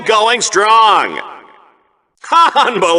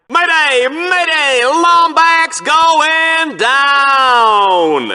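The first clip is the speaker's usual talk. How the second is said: mock distress call; 7 semitones higher, much slower than usual. Announcer mocking a crash.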